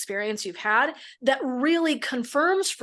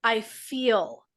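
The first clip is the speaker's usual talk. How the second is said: gentle demo phrasing; 3 semitones lower, slower than usual. Shown as a demonstration. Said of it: "notice the difference".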